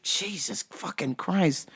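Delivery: hushed, breath-only mock disbelief; stunned whisper. Worker stunned by the customer's yelling, whispering. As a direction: whisper it under your breath in shock.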